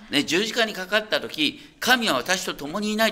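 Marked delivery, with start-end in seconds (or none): 1.8-3.1 mild retold cry. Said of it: "って叫んだんだよ".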